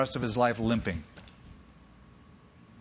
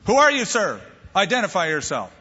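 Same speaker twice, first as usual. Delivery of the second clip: demanding challenge; 4 semitones higher, 4 dB louder than usual. Acted. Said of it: "It's not what he expected".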